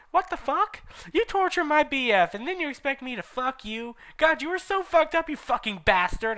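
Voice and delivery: high, furious ranting rebuke; angry outburst. Acted. Heroine raging at Snaketail after his proposal, furious high shout. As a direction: scream insults at him in disgust. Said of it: "I said angrily".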